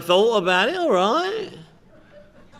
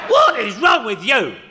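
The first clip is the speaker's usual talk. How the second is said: mock exasperated yelling; 4 dB louder than usual. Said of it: "they would ask me".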